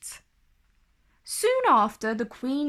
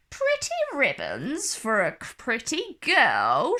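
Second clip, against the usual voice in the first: put-on croaking old pedlar. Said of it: "she croaked".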